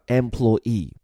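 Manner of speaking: employee with stress on the last syllable ee; final-stress employee. Shown as a demonstration. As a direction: say employee, first E like "A", land on ee. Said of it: "重音放在最后一个音节E".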